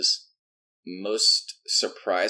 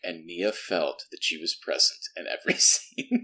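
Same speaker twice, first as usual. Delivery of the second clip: mock narrator; 5 semitones lower, 4 dB quieter than usual. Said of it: "the narrator was like".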